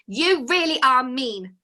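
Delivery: slow, hurt cry; cried out. Acted. Penelope to the mean fairy, slow hurt cry. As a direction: let the hurt spill out. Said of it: "she cried".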